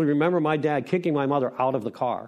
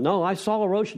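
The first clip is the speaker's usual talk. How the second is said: wife voiced higher and louder; mock wife; 9 semitones higher, 4 dB louder than usual. Wife insists to husband about the roach, higher and louder. Acted quarrel, wife's side.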